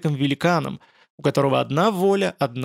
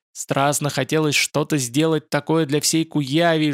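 usual speaking voice

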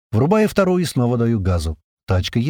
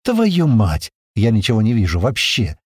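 frustrated curse. Acted. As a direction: shout out in blind panic. Blind crashing car.

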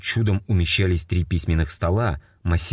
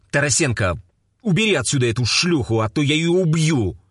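roaring captain; 9 semitones higher than usual. A narrator's reading. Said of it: "взревел капитан".

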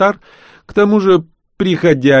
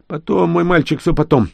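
put-on hurried old baron; 9 semitones higher than usual. A narrator's reading. Baron brushes off the boy.

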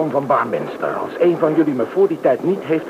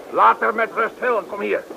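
higher, shouted order; commanding shout; 6 semitones higher than usual. Acted. Gang leader calling off his man, shouting an order. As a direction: shout him off her.

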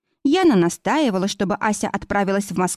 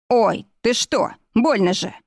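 a slow, drawn-out yelp of pain; pained exclamation; 3 semitones higher, slower than usual. A narrator's reading. Pathologist kicked under the table, a slow pained yelp. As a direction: cry out slowly as your leg is kicked. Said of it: "воскликнул патологоанатом".

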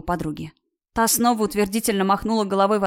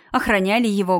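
ordinary delivery

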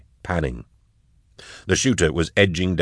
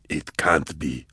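disbelief; 2 semitones lower, 6 dB quieter, much slower than usual. Acted. Disbelieving Vorier.

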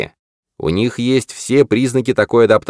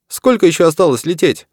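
голос Тома; 10 semitones higher than usual. Acted. Том спрашивает с заднего сиденья.

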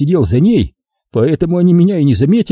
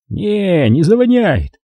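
higher-pitched, easy reassurance; reassuring; 6 semitones higher, slower than usual. A narrator's reading. Long guy calms Tolyan about the smell, reassuring. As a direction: brush the worry away. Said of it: "успокоил его Длинный".

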